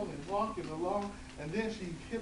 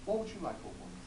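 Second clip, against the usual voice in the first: fish voice; 7 semitones lower, faster than usual. Acted. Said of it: "says the fish".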